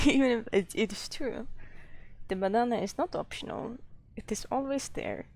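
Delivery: shaky attempt at a Swedish accent. Streamer admitting failure to viewers, wobbly Swedish accent. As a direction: keep up a fake Swedish accent, not quite succeeding. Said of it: "I am failing with the Swedish accent".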